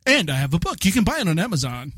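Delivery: hammed-up dying plug, pitch back down; William Shatner. Dying actor plugging his book, mock theatrical. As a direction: slip a quick sales pitch into the death scene. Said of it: "William Shatner, dying sheep, go".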